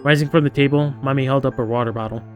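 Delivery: story narration. A narrator's reading. Reads game narration aloud.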